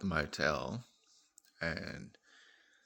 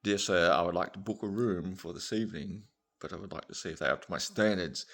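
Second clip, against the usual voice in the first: posh traveller; 5 dB louder than usual. Acted. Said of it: "And bloke goes".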